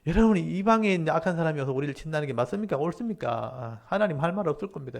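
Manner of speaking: Habakkuk, self-righteous. Retold or imitated. Habakkuk tells God he will have no answer, challenging. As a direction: argue as if sure of being right. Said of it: "이제 하박국이 내 말이 맞다는 거죠".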